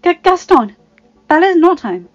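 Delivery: high, loud, stammered protest; flustered woman putting up a front; nervous stammer. A narrator's reading. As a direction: stumble on the name, then insist. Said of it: "she stammered".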